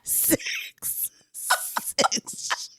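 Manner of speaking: soft whisper of a number. Real, not acted. Mom whispers the shocking count to cohost, hushed whisper. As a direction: whisper it like a secret.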